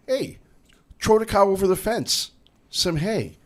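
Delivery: high-pitched old German farmer impression; old German North Dakotan. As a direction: call out like an old German immigrant. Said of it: "the old Germans, they use English words with German grammar".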